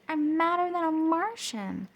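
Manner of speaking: high, loud furious line; angry Pluto. A narrator's reading. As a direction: fume like a hot planet. Pluto purple with rage.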